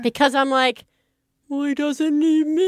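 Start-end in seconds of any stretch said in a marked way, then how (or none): 1.5-2.7 retold tearful thought. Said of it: "I start crying".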